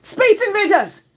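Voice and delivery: high, loud headline call; headline announcer. Acted. Streamer reads the headline, announcer style. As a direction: announce it like a tabloid.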